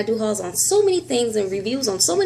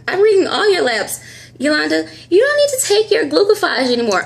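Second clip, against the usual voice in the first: imitating the doctor; 9 semitones higher, 4 dB louder than usual. Doctor's voice in retold scene.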